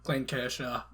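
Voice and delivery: Clayton Kershaw in a Boston accent; thick Boston accent, dropped r's. Shown as a demonstration. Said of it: "I like saying specific names in a Boston accent".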